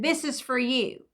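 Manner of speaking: imitating a neighbor's blunt statement. Neighbor hands her a hundred dollar bill, blunt. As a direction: say it simply and matter-of-factly. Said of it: "That's how he said".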